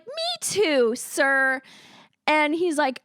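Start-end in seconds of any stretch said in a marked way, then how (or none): 0.0-1.6 chirpy. Retold or imitated. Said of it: "And I was like".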